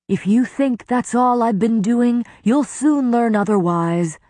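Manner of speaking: a touch of angry defiance; threat. A narrator's reading. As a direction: threaten him openly. Lucian threatening with sword.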